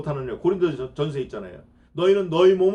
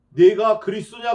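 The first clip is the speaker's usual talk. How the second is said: loud demanding question; 4 semitones higher, 8 dB louder than usual. Acted. High priest questioning Jesus.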